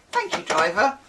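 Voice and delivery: lightly put-on West Country accent; a hint of West Country on the thanks; local accent. Passenger getting off the bus, light West Country accent. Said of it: "you get off like".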